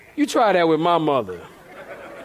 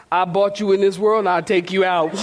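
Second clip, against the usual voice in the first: stern mother threat. Retold or imitated. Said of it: "This is a very mother thing".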